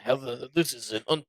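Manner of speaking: mock grave, a touch theatrical; understated imitation of a dramatic sigh and solemn tone; dramatic Putin. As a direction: play it as a solemn, weighty pause. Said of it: "he took that dramatic".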